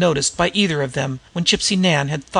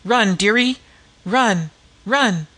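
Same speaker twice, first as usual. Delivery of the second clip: screeching Gypsy Nan; 5 semitones higher, slower than usual. A narrator's reading. Disguised woman screeches at an imaginary fugitive to run. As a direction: scream it as an old slum woman. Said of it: "screeching at the top of her voice".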